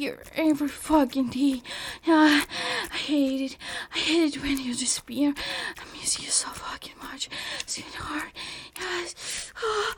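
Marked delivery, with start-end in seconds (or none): 3.9-8.3 soft breathy whisper. Acted. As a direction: whisper it close to the ear. Whispered longing.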